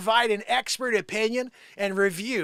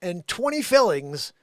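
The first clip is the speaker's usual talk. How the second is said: news read; 4 dB louder, slower than usual. Shown as a demonstration. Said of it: "I'll read it teleprompter style".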